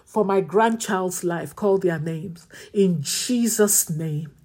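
impassioned intercessory praying; fervent prayer. Acted. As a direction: pray it with fire and urgency.

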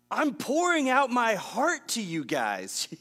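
playful exasperated Jesus voice. Retold or imitated. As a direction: voice Jesus, exasperated with his friends. Voicing Jesus' frustration.

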